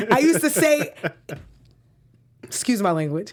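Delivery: imitated New York shout; a rapper yelling. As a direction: belt it out like an angry tweet. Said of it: "So this is just me yelling".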